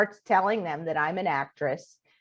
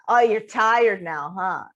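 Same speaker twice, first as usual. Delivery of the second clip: slow, louder imitated jab; mocking taunt; 2 semitones higher, 4 dB louder, slower than usual. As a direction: taunt them in a mildly mocking retelling. Acting out roommate's taunt.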